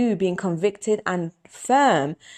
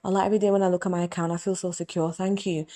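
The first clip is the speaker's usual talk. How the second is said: grateful prayer. Shown as a demonstration. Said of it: "This is how I pray to Allah".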